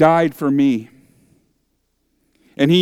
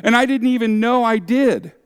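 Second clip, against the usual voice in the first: quick, higher, pleading question; a parishioner asking the pastor, half worried, quick and higher; imagined questioner; 7 semitones higher, faster than usual. Retold or imitated. Congregant pressing the pastor, worried and quick. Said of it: "You could ask".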